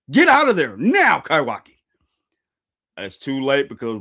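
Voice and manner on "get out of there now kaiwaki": high, loud urgent command; urgent shouted warning. A narrator's reading. Character warns Kaiwaki who used too much power, shouting urgently. Acting a warning to endangered comrade.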